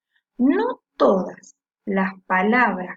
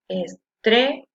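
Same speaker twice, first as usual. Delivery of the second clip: "estrella" slowly split, leaning on "tre"; syllables, stress marked; slower than usual. Shown as a demonstration. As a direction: separate "estrella" and hold up "tre". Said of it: "La que suena con mayor fuerza".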